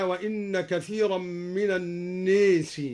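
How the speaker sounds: إمالة الناس; nās with imala. Shown as a demonstration. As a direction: lean the alif of الناس toward e. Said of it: "وأمال الناس".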